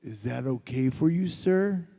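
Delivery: stare him down with the words; retold glaring challenge to the director; menacing challenge. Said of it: "I glare at him, and I go".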